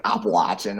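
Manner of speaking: Appalachian said ap-uh-LAY-chin; Appalachian pronunciation. Retold or imitated. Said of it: "I just say, like".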